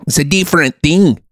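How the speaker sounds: Scots accent drifting toward New Zealand; Scottish accent. Shown as a demonstration. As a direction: wander from Scots into Kiwi. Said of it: "now I was in New Zealand".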